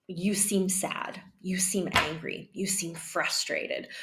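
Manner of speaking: soft, tentative best guesses; gentle questioning tone. Shown as a demonstration. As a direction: offer each feeling slowly, without accusing. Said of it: "We're gonna use a questioning tone".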